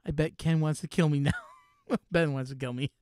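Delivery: laughing. Real, not acted. Cracks up after own parody.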